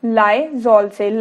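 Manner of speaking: Lysol से stretched out very slowly; slow answer. Shown as a demonstration. Teacher answers her own question for students, very slowly. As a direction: draw out Lysol से word by word. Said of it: "किससे धोएंगे?".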